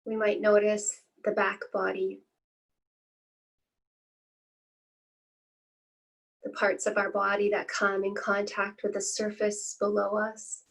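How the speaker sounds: calm, unhurried meditation guiding with long pauses; guided meditation. Acted. Teacher leading listeners through a body scan, calm guided-meditation voice. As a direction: ease listeners into stillness, phrase by spaced phrase.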